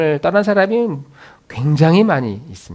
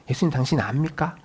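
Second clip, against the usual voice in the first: pleading lament; 8 dB quieter than usual. Retold or imitated. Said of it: "막 하소연했을 거예요".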